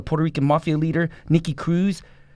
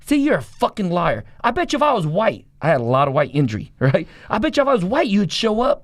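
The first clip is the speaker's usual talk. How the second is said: accusing God; 4 semitones higher than usual. Retold or imitated.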